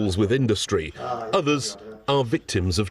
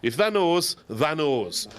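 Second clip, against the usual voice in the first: put-on Yorkshire accent; 4 semitones higher, slower than usual. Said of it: "not going to do the accent anymore".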